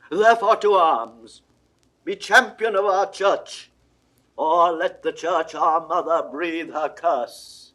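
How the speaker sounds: rally him to war with full force; rousing call to arms. Acted. Cardinal calls France to war.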